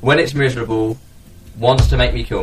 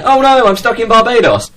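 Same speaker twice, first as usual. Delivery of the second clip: higher mock whine of a stranded star; mock celebrity whine; 10 semitones higher, 3 dB louder than usual. Mocking a celebrity stranded in Barbados with a high whine. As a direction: whine it like a spoiled celebrity stuck abroad.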